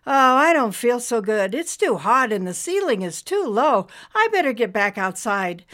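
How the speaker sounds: high, loud, feeble cloud creature complaining; a high sickly cloud feeling ill. Acted. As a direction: voice a wilting little cloud. Nimbus the cloud speaks.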